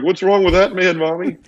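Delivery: lightly voiced child, pitched high; kid's voice. Kids in the pizza place asking their mother, childlike. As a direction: ask like a puzzled little kid. Kids staring at crying man.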